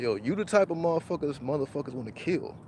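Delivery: stranger's hushed, ominous warning; quiet menace. Retold or imitated.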